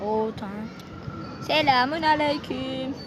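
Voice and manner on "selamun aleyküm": disguised deep voice. Pretend. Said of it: "Arkadaşlar sesimi değiştirdim".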